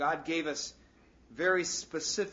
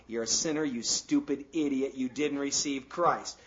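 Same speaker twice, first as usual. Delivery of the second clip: mock accusing taunt; 5 dB louder than usual. Voicing the accusing devil.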